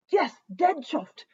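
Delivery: slow mock Yorkshire, dead chuffed drawn out; playful put-on Yorkshire; Yorkshire accent. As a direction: savour the Yorkshire vowels in chuffed. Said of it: "I don't wanna fool you guys into thinking that, you know, I'm from Yorkshire".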